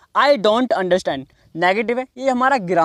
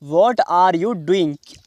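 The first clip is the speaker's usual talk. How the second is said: slow, word-by-word "What are you doing"; slow model question; 3 semitones lower, much slower than usual. Shown as a demonstration. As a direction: space out each word for learners. Teacher repeats the question word by word. (धीरे-धीरे, एक-एक शब्द अलग)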